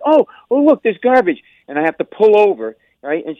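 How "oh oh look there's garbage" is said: mother excited. Retold or imitated. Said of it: "It's like".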